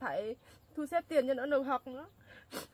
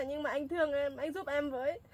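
begging with a sob; tearful plea. Acted. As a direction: plead through tears. Tenant begs for pity.

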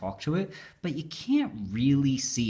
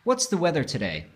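talking to voice assistant; 4 semitones higher than usual. Shown as a demonstration. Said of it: "you say".

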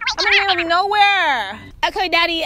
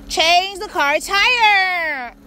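slow, crying plea to the car; slow whimpering command; tearful plea; much slower than usual. Real, not acted. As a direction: near tears, begging the car to obey. Car assistant keeps failing.

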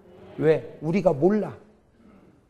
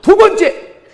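loud announcement; 16 dB louder, slower than usual. Real, not acted. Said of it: "preacher announcing second point".

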